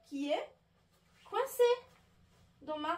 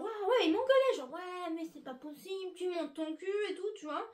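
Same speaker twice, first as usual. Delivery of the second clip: mock yell; 5 semitones higher than usual. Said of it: "il criait".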